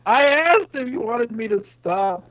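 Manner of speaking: glitchy cyborg voice from lag; choppy robotic distortion; half robot voice. Real, not acted. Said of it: "the reason why he sounds like a cyborg".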